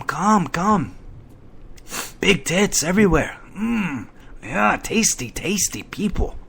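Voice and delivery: lightly hammed-up barker voice; mock chat invite. Podcaster mocking his own chat invite, light sleazy voice. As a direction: put on a sleazy promoter voice, lightly. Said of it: "I said".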